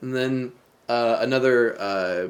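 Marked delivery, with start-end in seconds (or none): none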